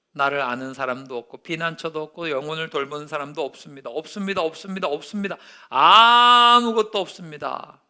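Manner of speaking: lament. Acted. Reading David's lament.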